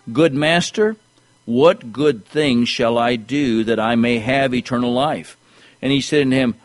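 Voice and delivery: measured, projected preacher's reading; scripture reading. Acted. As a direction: read the verses out to the congregation with emphasis. Reads scripture aloud to congregation.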